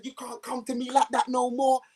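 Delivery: retold telling-off. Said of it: "I said".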